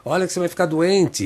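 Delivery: high-pitched nagging mother, drawn out on the call; mock a mum calling her boy out of his room; imitated motherly yelling. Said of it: "E ela fica".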